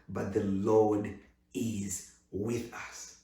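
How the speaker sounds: slow calm scripture reading; solemn scripture reading. Acted. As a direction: read it with calm weight.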